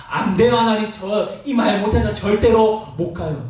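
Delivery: 약간 높은 음으로 버티는 거절; 못 간다고 힘주어 버티기; 완강한 거부. Acted. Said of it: "마지막 하나님께 버팁니다". (하나님께 끝까지 버티는 모세처럼 거부)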